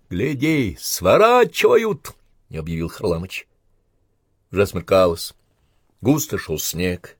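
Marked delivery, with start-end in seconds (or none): 0.1-2.1 high, loud, drawn-out announcement; raised, elated call; excited cry. Acted. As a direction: shout the good news. Soldier announces tanks turning away.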